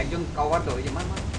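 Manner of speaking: loud urgent callout, rising; cover me shout. Real, not acted. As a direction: bark the order at your squad. Calling teammates for cover mid-fight.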